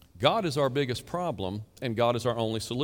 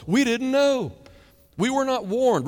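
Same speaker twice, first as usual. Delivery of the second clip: higher, louder mock protest; 10 semitones higher, 5 dB louder than usual. Preacher mocks sinners claiming they were never warned, in a whiny cry. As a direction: cry out a whiny excuse of ignorance.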